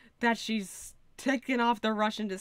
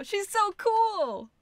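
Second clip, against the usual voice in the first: much higher, slow, drawn-out fan squeal; gushing delight; 12 semitones higher, 4 dB louder, much slower than usual. Real, not acted. Streamer swooning over the pirate witness, high slow squeal. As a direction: stretch "so" in pure delight.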